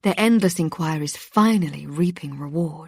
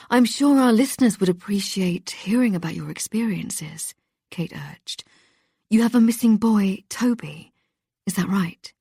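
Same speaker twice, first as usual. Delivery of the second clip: bright radio presenter; 3 semitones higher than usual. Acted. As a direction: coax the caller along like a cheerful host.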